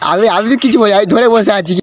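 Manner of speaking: exasperated, shouted and high; frustrated shout. Acted. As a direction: blurt it out, fed up with her. Frustrated lover on phone.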